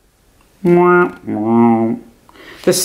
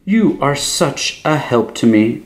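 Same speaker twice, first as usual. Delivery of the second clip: sugary praising high voice; gushing exclaim; 6 semitones higher than usual. A narrator's reading. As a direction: flatter him sweetly. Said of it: "Strega Amelia exclaimed".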